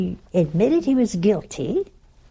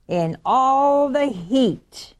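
drawn-out, higher-pitched complaint; milk the hardship slowly; grumbling; 4 semitones higher, 3 dB louder, much slower than usual. Acted. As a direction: stretch the words into an acted grievance. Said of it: "They grumbled".

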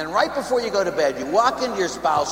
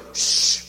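an unvoiced, hurried shh standing in for the poem; a shushed poem rattled off; mock hush; 5 dB louder than usual. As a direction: breathe out a quick shh for the whole poem. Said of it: "you go".

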